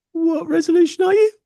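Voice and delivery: high, questioning machine; computer voice. Pretend. Computer asks the box its resolution, high voice. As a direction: ask like a curious computer.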